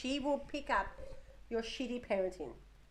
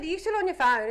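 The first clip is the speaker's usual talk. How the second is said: scolding mum; 7 semitones higher, 8 dB louder than usual. Retold or imitated. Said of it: "I said".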